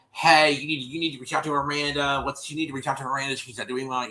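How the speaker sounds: acted-out nudge to reach out; imitating a woman's plea. Voicing woman's urgent message in retelling.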